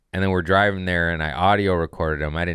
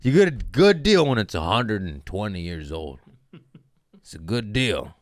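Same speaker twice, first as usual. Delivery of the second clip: dad's voice; 3 semitones higher, 3 dB louder than usual. Retold or imitated. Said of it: "He said".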